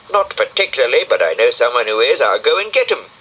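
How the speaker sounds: a fussy little snail explaining, unhurried; Brian the snail. Acted.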